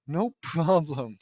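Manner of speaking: lightly hammed Russian accent. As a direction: draw it out in a put-on Russian accent. Mister Universe's accented reply, acted.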